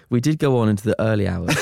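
fast, laughing through it; reading while giggling. Real, not acted. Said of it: "I'm gonna just change it".

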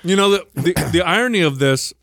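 talking while chewing jerky; mouth full. Real, not acted. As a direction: speak through a mouthful of food. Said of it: "sorry, I'm eating some of this".

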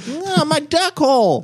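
high squeaky quacking voice; squeaky duck voice. Pretend. Same duck voice.

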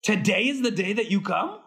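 high, laughing mock complaint to a friend; mock exasperation. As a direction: tease him for the worst timing. Mock scolding Todd on set.

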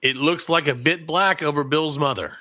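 reads "It looks like a bit black over Bill's mother" slowly and carefully; slow careful reading. Shown as a demonstration. Host reading an odd phrase to guests, slow and careful.

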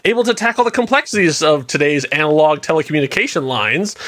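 polished product-pitch read; brisk, smooth commercial voice-over. Acted. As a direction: sell it like an infomercial announcer. Reads product blurb like an ad.

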